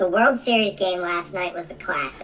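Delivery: voice sounding like inhaled helium. Playing with voice effects for fun, the speaker tries a line: helium voice. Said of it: "I'll just play helium just for fun".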